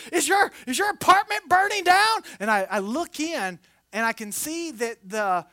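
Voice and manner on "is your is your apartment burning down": high, loud alarmed mom; worried mother. Retold or imitated. Mother on the phone, alarmed. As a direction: ask it like a frightened mother. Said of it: "She's like".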